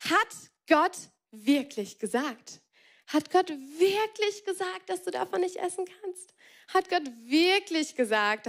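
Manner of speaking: slow, drawn-out insinuating question; a sly snake's leading question; tempting serpent. Acted. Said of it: "die Schlange sagt zu Eva".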